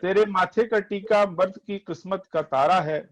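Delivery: poetry recitation. Acted. Reciting verse.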